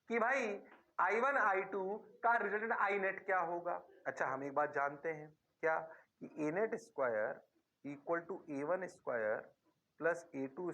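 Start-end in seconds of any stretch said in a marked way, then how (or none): none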